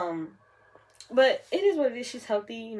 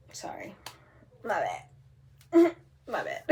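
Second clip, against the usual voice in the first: giggling through it; laughing apology; 3 semitones higher, 4 dB louder than usual. Real, not acted. Vlogger apologizing to viewers for losing track, giggling. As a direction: say it while laughing.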